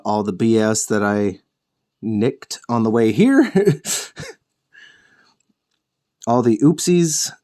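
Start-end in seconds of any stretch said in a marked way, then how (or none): 3.6-4.3 brief, light chuckle; small self-amused laugh; a quick huff of laughter; short laugh. Real, not acted. Laughs at own painting nicks.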